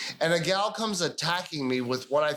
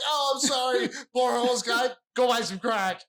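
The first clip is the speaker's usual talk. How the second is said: mock naive kids; 5 semitones higher than usual. Naive kids' reply, voiced in story.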